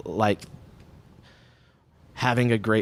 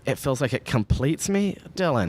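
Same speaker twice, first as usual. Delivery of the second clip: mocking repeat; 4 semitones higher than usual. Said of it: "Oh, God. Edit that one out".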